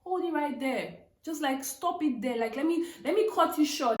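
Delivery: stopping him. Retold or imitated. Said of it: "I stopped him".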